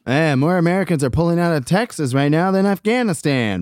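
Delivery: lightly voiced comedian delivering a one-liner; a hint of a comedian's put-on voice; Mark Normand impression. Co-host does a friend's tweet for laughs, lightly voiced impression. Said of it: "do it in my Mark Normand voice".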